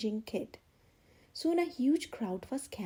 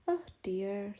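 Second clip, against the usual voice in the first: sad; 5 semitones lower than usual. Acted. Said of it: "the old woman said sadly".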